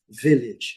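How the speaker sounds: Village said VIL-itch, no final vowel; final E silent. Shown as a demonstration. Teacher says it is identical in both varieties, final E silent. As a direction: say Village with a short i ending. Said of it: "letra E não pronunciada".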